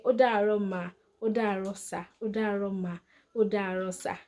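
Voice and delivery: "Ó dàárọ̀" with a respectful "mà" or "sà" at the end; polite Yoruba phrase. Shown as a demonstration. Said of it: "say it in a polite way".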